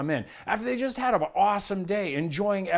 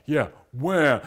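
put-on kids throwing the wah back at dad; eye-rolling sing-song wah; mocking wah; 5 dB louder than usual. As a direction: teens mocking dad's line. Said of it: "they walk away going".

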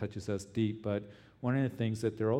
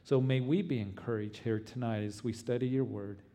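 earnest pleading prayer. Acted. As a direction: pray earnestly for the persecuted. Pastor leads congregation prayer.

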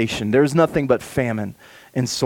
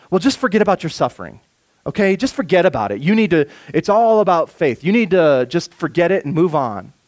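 fast, brushing it off; dismissive; 3 semitones higher than usual. Retold or imitated. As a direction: wave their pain away lightly. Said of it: "very dismissive of suffering".

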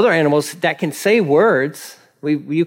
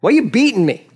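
high-pitched, indignant question; protesting donkey; 6 semitones higher, faster than usual. Acted. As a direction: play a donkey protesting its treatment. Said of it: "it's asking questions".

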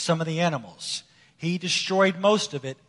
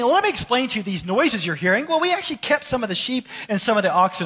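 Saul making excuses; 3 semitones higher than usual. Retold or imitated. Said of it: "He's saying".

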